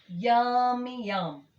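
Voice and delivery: high, loud and delighted; loud happy yum of a bear tasting honey; delighted yummy. Acted. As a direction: savour it with glee.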